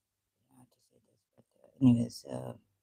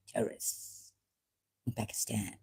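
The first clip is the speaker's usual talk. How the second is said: whispered aside; sarcastic whispered aside; mock whisper; 5 semitones lower, 12 dB quieter than usual. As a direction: whisper it like a secret. Mocking the army denial.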